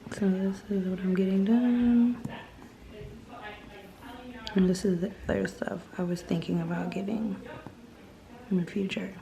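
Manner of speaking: words through numbed lips. Real, not acted. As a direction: talk with a numb mouth. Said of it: "my lips are so numb".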